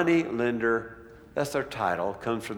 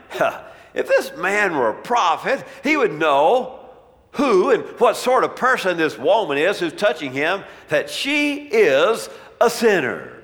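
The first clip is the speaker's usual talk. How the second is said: higher-pitched, lightly acted disdain; a hint of a scornful Pharisee; disdainful Pharisee; 5 semitones higher, 6 dB louder than usual. Pharisee judging the woman touching Jesus, mild disdain. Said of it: "You can kinda hear the disdain in his voice".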